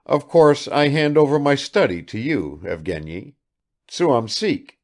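put-on bustling old father. Vassily Ivanovich bustling about.

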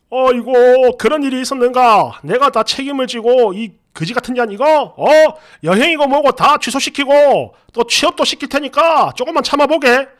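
lightly voiced indignant father; a hint of a scolding father; imitated father-in-law. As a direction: play an elder blustering apologetically on the phone. Voices girlfriend's outraged father on phone.

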